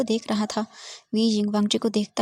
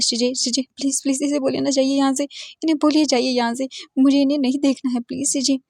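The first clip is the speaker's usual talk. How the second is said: higher, louder pleading to sister; tearful begging; 4 semitones higher, 3 dB louder than usual. Acted. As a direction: cry to his sister for help. Crying to his sister. (दीदी से रोती हुई ऊँची विनती)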